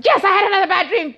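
fast, high and laughing; laughing retort. Retold or imitated. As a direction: blurt it out while cracking up. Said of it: "I said".

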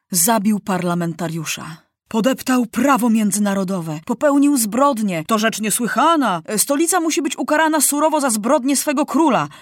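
a hint of a furious enemy king condemning the city; indignant accuser. Enemy denounces the capital, rising outrage.

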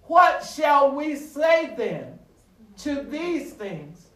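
drawn-out pulpit challenge, easing at the end; emphatic scripture quote. Real, not acted. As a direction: proclaim the verse to the congregation. Verse repeated as the climax builds.

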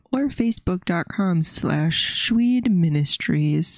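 slowing announcer read; radio announcer voice. Acted. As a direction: stretch out the ending like a DJ. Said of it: "You kinda sound like, um, the one guy from Parks and Rec".

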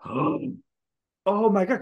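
realizing the scam at the checkout; dawning horror. Retold or imitated. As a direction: stretch it as it sinks in. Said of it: "And I was like".

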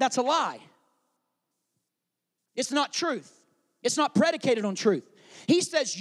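loud, emphatic sermon delivery; full-force preaching. Acted. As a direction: drive the point home to the congregation.

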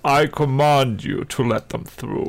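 strange put-on king voice; a regal put-on voice; odd king voice. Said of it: "what's your voice doing".

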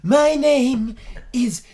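grand, slow elf introduction; pompous elf voice. Acted. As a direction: play a haughty elven master. Introduced guest from fantasy land.

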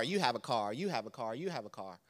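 mock-generous handout trailing off; facetious giveaway. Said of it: "I'm being a little facetious".

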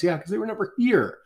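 spring the fact on them; triumphant reply. Retold or imitated. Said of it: "I like to ask people".

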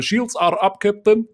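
lightly put-on Russian accent. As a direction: report to the captain in Russian accent. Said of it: "mit russischem Akzent zu sprechen".

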